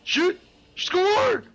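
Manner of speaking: high-pitched, hammed-up Canadian hockey call; Canadian accent. Shown as a demonstration. Canadian imitating a hockey cheer, high Canadian accent. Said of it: "that's my Canadian accent".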